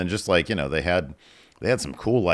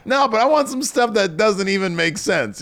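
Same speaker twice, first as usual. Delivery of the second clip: ordinary talk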